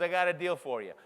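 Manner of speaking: put-on light Austrian accent, "got" said like "kot" and "deal" like "teal"; a mild imitation of a big Austrian coach. Austrian coach making a deal on the phone, mild Austrian accent. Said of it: "Totally lost his accent".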